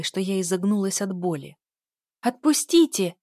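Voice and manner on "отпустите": high, loud scream to let go. Acted. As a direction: cry out in pain and fear. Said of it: "закричала я". (громкий отчаянный крик)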